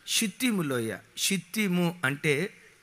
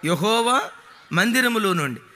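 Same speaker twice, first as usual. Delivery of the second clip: raised voice, calling out; loud; 3 dB louder than usual. Real, not acted. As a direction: lift the voice to the congregation. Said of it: "స్వరమెత్తాలి".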